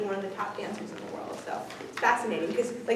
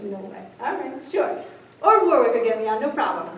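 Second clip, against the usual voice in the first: sarcastic disbelief; 3 dB louder than usual. Acted. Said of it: "I'm like".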